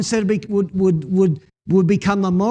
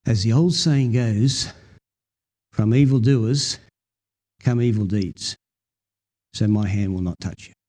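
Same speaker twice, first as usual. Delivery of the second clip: slow solemn reading; 9 semitones lower than usual. Shown as a demonstration. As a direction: lay each phrase down slowly. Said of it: "I love this verse".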